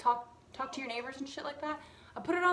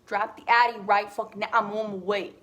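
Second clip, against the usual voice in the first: louder and louder, urgent demand; retold frantic yell; 9 dB louder than usual. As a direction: yell it like you need the cat now. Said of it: "And I'm like".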